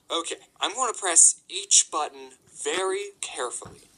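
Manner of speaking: deliberate, word-by-word resolve; careful, deliberate. Retold or imitated. Employee talking himself through the alarm code, deliberate. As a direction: talk yourself through it carefully.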